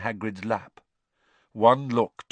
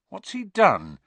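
high, louder worried question; nervous; 11 semitones higher, 5 dB louder than usual. A narrator's reading. Harry hearing a loud splash outside, nervously. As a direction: ask it nervously, pitch jumping up. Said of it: "said Harry nervously".

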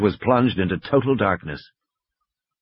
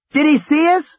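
shouting over machinery; 4 dB louder than usual. A narrator's reading. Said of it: "She had to shout over the noise".

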